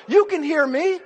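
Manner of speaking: loud, emphatic command from on high; God. Acted. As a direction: call it out slowly and forcefully. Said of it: "God said".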